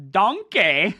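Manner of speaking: loud, high mock German cry; mock exclamation. Streamer clowning with German words, mock exclamation. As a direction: belt out the word for a joke. Joke German word called out.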